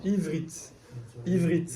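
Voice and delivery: Ivrit in two syllables, v straight into r; E muet. Shown as a demonstration. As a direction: say Ivrit with no vowel between v and r. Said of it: "j'entends que la consonne". (Ivrit en deux syllabes, sans « é » après le v)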